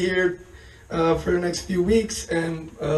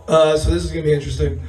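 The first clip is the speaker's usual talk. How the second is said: quick amused laugh through the words; much faster than usual. Real, not acted. Comic to the crowd about his gone voice, laughing. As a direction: brush off the lost voice with a laugh. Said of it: "My voice is gone".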